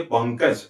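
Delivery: पंकज with the nasal said as ङ, pंङ-kaj; demo pronunciation. Shown as a demonstration. Teacher showing students how पंकज is said, clear demo. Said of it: "ऐसा ही हम कहते हैं".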